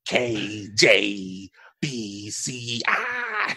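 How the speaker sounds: letters spelled out slowly; slow typing voice. Retold or imitated. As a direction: read each letter out slowly. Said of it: "gremlins just being on social media".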